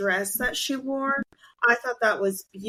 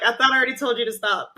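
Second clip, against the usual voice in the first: fast, laughing mock scold; laughing exasperated quote; much faster than usual. Retelling her telling him off, laughing fast. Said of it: "And she's like".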